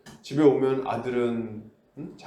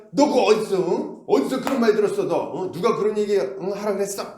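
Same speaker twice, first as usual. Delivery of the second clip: raised, louder mock scolding of a child; scolding parent; 6 semitones higher, 3 dB louder than usual. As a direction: tell off your kid who swore, loud and high. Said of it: "이렇게 막 혼내지 않겠습니까".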